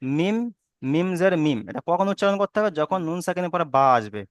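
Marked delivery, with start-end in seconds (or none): 0.0-1.6 "মিম জের মিম" spelled out deliberately with a final m; careful teacher's demo of "মিম জের মিম"; new spelling-out. Shown as a demonstration. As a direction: model "মিম" clearly, closing on m. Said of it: "এই উচ্চারণটা কি করতে হবে".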